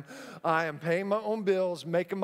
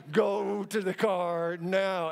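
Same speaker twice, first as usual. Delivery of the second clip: gritted teeth command; slower than usual. Retold or imitated. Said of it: "I talked with my teeth like this".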